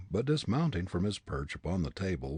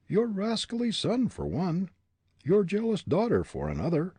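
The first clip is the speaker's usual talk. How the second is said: put-on higher, defiant young prisoner; defiant young man; 12 semitones higher, 5 dB louder than usual. A narrator's reading. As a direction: throw back the accusation. Hartley voiced contemptuous.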